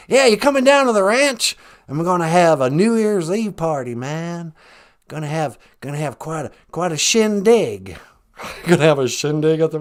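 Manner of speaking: folksy Texan, easygoing invite; lightly voiced George W. Bush. Held Bush impression.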